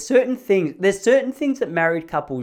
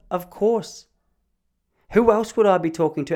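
higher-pitched retort; imitated indignant wife; 6 semitones higher, 3 dB louder than usual. Wife answers husband's silly question, indignant higher retort. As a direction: throw it back as if it were obvious.

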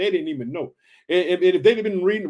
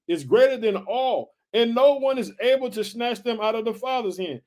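raised, emphatic preacher reading; scripture reading; 3 semitones higher than usual. Acted. Preacher rereading Jesus' promise to the family, emphatic scripture reading. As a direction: proclaim the verses in long, ringing phrases.

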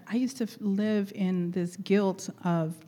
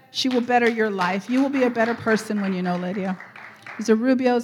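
excited; 2 semitones higher, 8 dB louder than usual. Real, not acted. Enthusiastic shout-outs to congregation.

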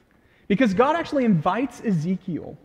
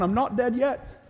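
slow, mock Scottish Monty Python quote; attempted Scottish accent; 4 semitones higher, slower than usual. Preacher quoting Monty Python to congregation, in mock Scottish accent. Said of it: "that's also my Scottish accent".

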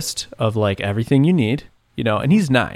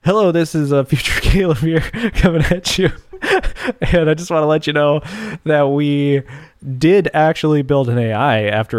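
future self pitch; 3 semitones higher than usual. Pretend. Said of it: "queue up my future self to pitch it".

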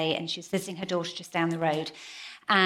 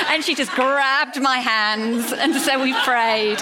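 slow, loud, raised words through laughter; laughing while talking; 6 semitones higher, 6 dB louder, slower than usual. Real, not acted. Storyteller ending guest story, laughing while talking.

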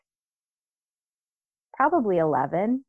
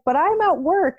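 husband's protest; 11 semitones higher, 4 dB louder than usual. Retold or imitated. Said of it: "And he's like".

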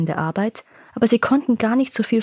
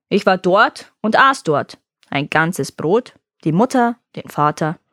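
slow, drawn-out ogre boast; gloating monster. Acted. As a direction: savor each thing you've eaten. Monster boasts, maw wide open.

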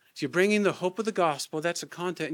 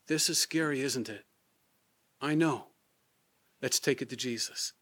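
gently; 3 semitones lower, 3 dB quieter than usual. Shown as a demonstration. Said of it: "And you say gently".

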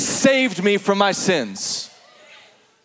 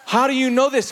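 amazed reader; 3 semitones higher than usual. Retold or imitated. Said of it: "you're like".

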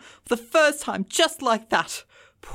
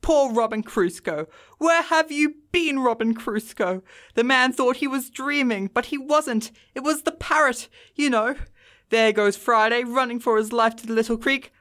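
between laughing and crying; 3 semitones higher than usual. A narrator's reading. Scrooge acting out Robin Crusoe and Friday, excited. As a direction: relive the tale aloud, thrilled, calling out at the end. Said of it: "extraordinary voice between laughing and crying".

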